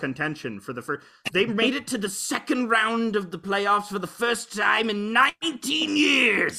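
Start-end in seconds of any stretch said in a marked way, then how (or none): 1.3-6.6 a high, loud Canadian fan whoop; excited hockey fan. Real, not acted. A Leafs fan shouting about the playoffs, excited and loud. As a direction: cheer the Leafs on, all the way up. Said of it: "We're going all the way".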